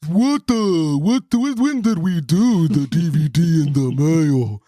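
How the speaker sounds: slow, put-on voice of a baffled man; drawn-out mock questioning; imitating his questioning. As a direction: stammer it out slowly, mimicking him. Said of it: "the way he said it".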